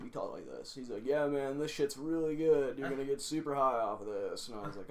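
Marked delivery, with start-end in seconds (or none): 1.0-4.5 surfer dude. Retold or imitated. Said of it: "He talked like a surfer dude".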